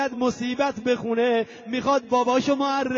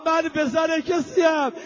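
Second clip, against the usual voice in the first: much louder, higher lament; wailing shout; 4 semitones higher, 5 dB louder than usual. Acted. Preacher cries out the martyr's fate, loud lament. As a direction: cry it out in grief.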